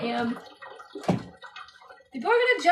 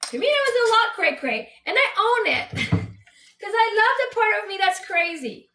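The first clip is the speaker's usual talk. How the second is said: laughing; 5 semitones higher, 3 dB louder than usual. Real, not acted. Laughing, owning her craziness.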